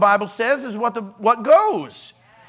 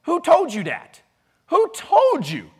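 higher, challenging Southern-dialect question; mock Southern dialect; 7 semitones higher, 3 dB louder than usual. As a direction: demand it in a put-on Southern dialect. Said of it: "he isn't from the South".

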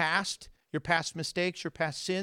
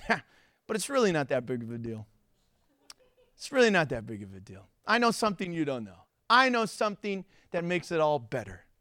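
smug knowing aside. Pretend. A believer brushes off panic with a grin, smug calm. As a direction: shrug it off with a private grin. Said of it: "a little grin on your face and go".

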